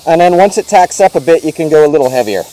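muffled behind a respirator mask; talking through a paint respirator. Real, not acted. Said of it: "I hope you can hear me with this respirator".

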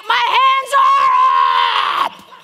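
slow, high, loud shouted protest; indignant protest. Retold or imitated. Young player shouts back at the coach, high and slow. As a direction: yell back that you already are. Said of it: "I'm like".

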